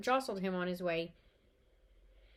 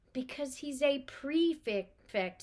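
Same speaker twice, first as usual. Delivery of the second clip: fondly; 5 semitones higher, much slower than usual. Acted. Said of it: "said Mother fondly".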